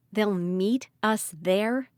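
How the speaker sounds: slow, drawn-out disbelief; incredulous. Acted. Ridley echoing Dad's words in stunned disbelief. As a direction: repeat it, stunned.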